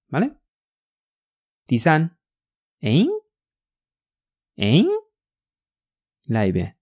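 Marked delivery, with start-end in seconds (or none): 2.8-4.8 short "诶？" with a sharply rising tune; questioning interjection. Shown as a demonstration. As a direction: toss out "诶？" as a puzzled huh. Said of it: "就是要用这个语气".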